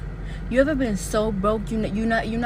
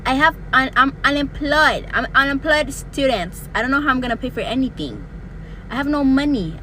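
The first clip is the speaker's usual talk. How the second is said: loud frustrated rant; exasperated outburst; 3 semitones higher, 5 dB louder than usual. Real, not acted. Ranting about being unemployed and broke.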